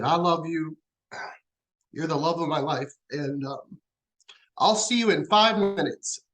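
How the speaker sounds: choking up. Real, not acted. Grieving spouse retelling the wife's last words, choking up. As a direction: really close to tears, pushing through the words. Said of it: "give you a minute to compose yourself".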